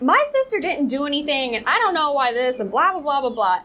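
a hint of British accent, mocking protest. Host mimics the brother defending his sister, mock British accent. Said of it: "he's got this British accent".

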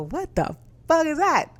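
losing it over a cousin's mortgage figure; shocked outburst. Retold or imitated. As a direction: let the disbelief explode. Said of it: "I was losing it for a moment there".

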